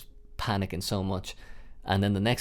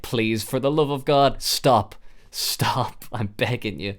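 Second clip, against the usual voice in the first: pleading. Retold or imitated. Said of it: "And I'm like".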